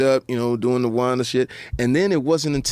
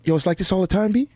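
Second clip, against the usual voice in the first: put-on young guy's voice; 7 semitones higher than usual. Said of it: "The little guy goes".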